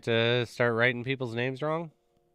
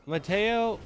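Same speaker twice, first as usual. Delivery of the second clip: higher-pitched imitation of a name call; mock name call; 10 semitones higher, 3 dB louder than usual. Imitating a barista misnaming Matt, mock name call. Mimics names called out wrongly at Starbucks.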